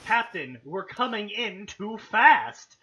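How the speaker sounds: understated panicked co-pilot; mild frightened cry. Acted. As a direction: cry out a warning to the captain. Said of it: "the co-pilot cried".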